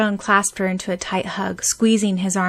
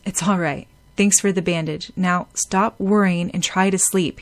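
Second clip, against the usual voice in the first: gruff. Acted. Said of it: "he said gruffly".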